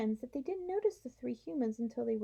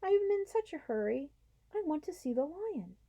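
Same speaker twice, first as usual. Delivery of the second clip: urgent plea; 7 semitones higher than usual. Acted. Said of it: "Oh, please".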